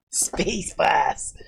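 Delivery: low, soft Aussie attempt; Australian accent. Trying out the Aussie space force name, soft Australian accent. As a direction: try it quietly in a put-on Australian accent. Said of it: "of the Australian accent".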